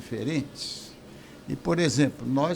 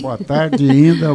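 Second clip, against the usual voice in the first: loud greeting; 2 semitones higher, 13 dB louder, slower than usual. Real, not acted. Hearty on-air greeting to host.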